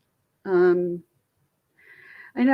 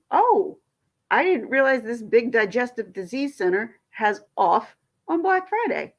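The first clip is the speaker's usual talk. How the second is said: incredulous surprise; 3 semitones higher than usual. Real, not acted. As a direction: sound genuinely amazed they close. Learns clinic closed on holiday.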